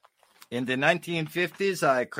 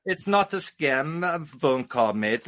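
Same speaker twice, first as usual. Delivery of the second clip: put-on English accent. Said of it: "the English comedy with the English accent".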